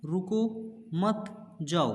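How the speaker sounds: रुको, then a break before मत जाओ; pause after रुको. Shown as a demonstration. Teacher reading out a punctuation example, pausing after रुको. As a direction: set रुको apart with a pause. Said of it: "यहाँ पर मैंने दोस्तों चिन्ह लगा दिया".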